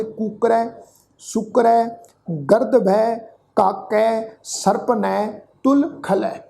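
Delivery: ਕੁਕਰੈ, ਸੁਕਰੈ, ਗਰਦਭੈ each ending in an open ai; ai-sound endings. Shown as a demonstration. Teacher demonstrating final-letter rule, ਕੁਕਰੈ and the rest with ai endings. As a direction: end ਕਾਕੈ, ਸਰਪਣੈ, ਤੁਲ ਖਲੈ on an ai vowel, word by word. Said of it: "ਦੁਲਾਵਾਂ ਦੇ ਪਾਠ ਵਾਂਗੂ ਉਚਾਰਨ".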